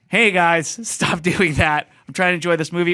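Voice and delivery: mock telling-off of noisy kids; old fart complaining. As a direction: play the killjoy calling out to kids. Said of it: "be the old fart that goes".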